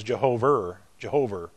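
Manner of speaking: put-on Boston-accented "Jehover" with an R on the end; imitating a Boston accent on "Jehover", final vowel turned to R. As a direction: say "Jehover" Boston-style, ending in an "er" sound. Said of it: "he had the Harvard Boston accent".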